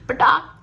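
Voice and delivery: sudden loud "pataak" burst; explosive sound-effect word; imitated bang. Shown as a demonstration. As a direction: mimic the crack of a bomb going off. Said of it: "ऐसे आवाज़ आती है".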